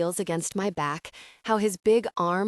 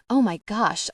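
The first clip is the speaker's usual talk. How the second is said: cry out; 2 semitones higher, 5 dB louder than usual. Acted. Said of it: "I cry".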